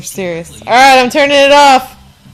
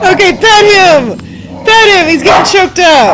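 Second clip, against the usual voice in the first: excited urging; 6 semitones higher than usual. Real, not acted. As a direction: urge them on up high. Urging to pet the dog.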